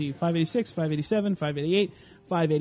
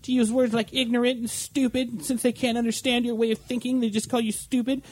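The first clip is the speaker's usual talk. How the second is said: higher, mock-indignant radio host rant; mock her outrage, pitched up; higher mocking talk-radio huff; imitating a pissed-off radio host; 5 semitones higher than usual. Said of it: "all pissed off".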